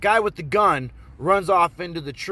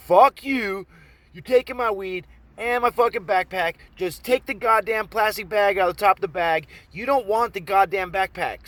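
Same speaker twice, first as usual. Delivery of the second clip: higher, emphatic exasperated retort; acted angry protest; 4 semitones higher, 3 dB louder than usual. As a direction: hammer the objection home to the mugger. Arguing with robber, acted.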